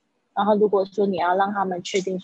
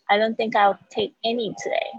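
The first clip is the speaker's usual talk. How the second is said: fast linked speech; 3 semitones higher than usual. Shown as a demonstration. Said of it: "讲很快的时候".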